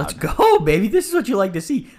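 high, loud fan cheering; real excited cheer. Real, not acted. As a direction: whoop it up at the fight. Cheering a fight at the game.

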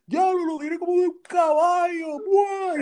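half-shouted shock at the whole class; shocked exclamation. Retold or imitated. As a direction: blurt it out like you can't believe your eyes. Friend exclaiming at shocking sight.

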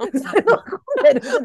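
high giggling echo; laughing. Real, not acted. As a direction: giggle through the nickname. Echoing the nickname, higher.

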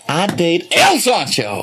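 emphatic mock-showman voice; hammed-up name drop; El Sancho. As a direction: imitate a boastful brother. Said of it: "that's how he would say it".

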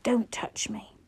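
a breathy whisper, barely there; hushed, pleading whisper. A narrator's reading. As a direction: whisper it as if too raw to speak aloud. Whispered plea in emotional scene.

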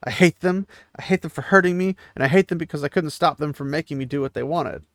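a touch of tearful hurt, not real crying; lightly voiced sobbing.

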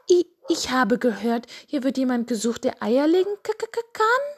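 high hen voice climbing into clucked stammer; stuttering hen. Acted. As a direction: stammer shyly, rising sharply at the end. Hen applies for the job.

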